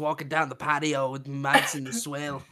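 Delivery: casual put-on Australian accent. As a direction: reel it off like an Aussie. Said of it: "my Australian accent's so fire".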